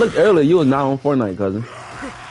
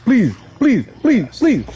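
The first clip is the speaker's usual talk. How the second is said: mock begging; 10 semitones higher, 5 dB louder, slower than usual. Begging to hide in trash.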